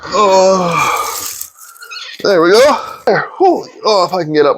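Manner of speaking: straining to crawl out; effortful, climbing out from under. Real, not acted. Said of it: "try to crawl out of here without dying".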